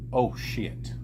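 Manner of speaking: hushed, near-whispered oath; stammered shock. Acted. Barkeep recognizing the hooded man, hushed stammered shock. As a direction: let it slip out under the breath. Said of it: "stammers back and goes".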